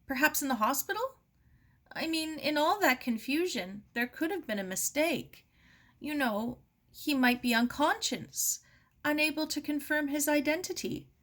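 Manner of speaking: a widow begging for any chance he lived; voiced hopeful Mary. A narrator's reading. Mary pleading hope of survival.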